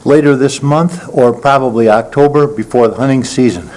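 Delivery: winded, breathing hard between phrases; gasping after running over. Real, not acted. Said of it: "I'm out of breath".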